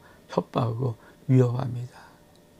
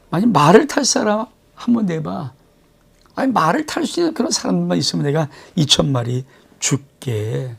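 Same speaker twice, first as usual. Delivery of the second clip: taunting wager; 2 semitones higher than usual. Acted. Enemy commander baiting the weak kingdom with horses, taunting. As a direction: dangle the bet as a taunt.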